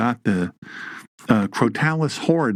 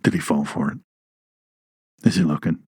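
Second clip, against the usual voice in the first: sly snake voice; 7 semitones lower than usual. Retold or imitated. The snake checking whether the man fell for it, low and sneaky. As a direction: play the snake peeking to check if he's fooled.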